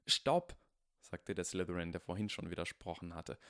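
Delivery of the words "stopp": sharp high alarmed cry; shout. Acted. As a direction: yell it to stop him. Slytherin shouts to stop.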